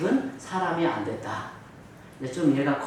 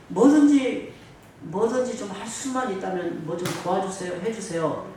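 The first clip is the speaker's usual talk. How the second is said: doubtful begging, higher-pitched start; half-believing plea; 4 semitones higher than usual. Acted. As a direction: plead without quite believing he can help. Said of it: "사실 이 어감의 어투는".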